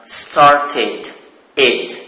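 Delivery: "started" with an extra id syllable at the end. Shown as a demonstration. Teacher explaining to the class the id ending of "started". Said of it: "it is pronounced".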